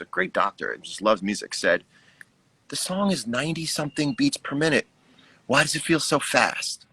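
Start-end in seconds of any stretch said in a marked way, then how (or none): 2.7-6.8 lightly voiced friend asking; a hint of a puzzled friend; friend's voice. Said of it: "a friend of mine ... said".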